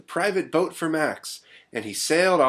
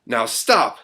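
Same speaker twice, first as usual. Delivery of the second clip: storybook order with a punched last word; commanding Max; 6 dB louder than usual. Acted. Max halts the wild things, firm command. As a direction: call a halt to the rumpus. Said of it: "Max said".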